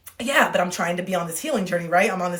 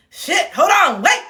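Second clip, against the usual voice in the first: high, loud sudden interruption; mock panic; 8 semitones higher, 6 dB louder, slower than usual. Realizing she tuned her friend out, mock panic. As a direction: blurt it out as if losing the thread.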